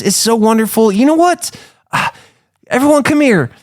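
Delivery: high-pitched, effusive villager; gushing townsfolk. Acted. Townsfolk thanking the three visitors, high gushing voice.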